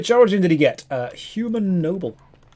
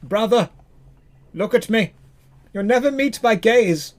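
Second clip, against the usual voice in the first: mock tragic plea; 2 semitones higher than usual. Streamer voicing a faceless sibling, mock heartbreak. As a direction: lay the hurt on thick, pleading. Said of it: "I'm crying because it's so beautiful".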